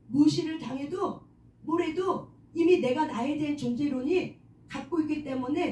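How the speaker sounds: usual speaking voice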